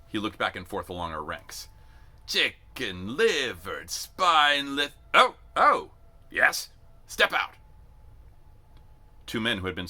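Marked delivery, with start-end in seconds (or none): 2.3-7.5 slow, loud, rising to surprise; sneering shout. A narrator's reading. Sergeant insults recruits until two step out, loud. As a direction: drag out the insult then brighten.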